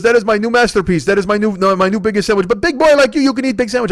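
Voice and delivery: put-on high, eager accented old deli man; high eager voice of the old deli owner pushing a huge sandwich. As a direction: gush like a proud old shopkeeper. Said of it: "He goes".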